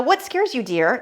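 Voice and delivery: lightly voiced sappy scammer; mock scammer sweetness. Woman mocking a romance scammer's pet name, lightly voiced. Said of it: "They will commonly call you dear".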